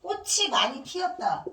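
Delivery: 꽃이 linked as kko-chi; 꽃이 read with a ch, not an s; correct linking in 꽃이. Shown as a demonstration. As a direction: carry the final ch of 꽃 into 이: 꼬치. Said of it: "이렇게 읽어야 되는 거야".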